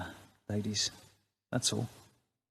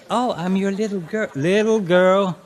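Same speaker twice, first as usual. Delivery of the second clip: mock coy girl; 3 semitones higher than usual.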